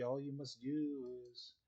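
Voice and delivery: slow, strained and choked; overacted death scene. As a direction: force the words out past the cough. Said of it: "spice stuck in my throat".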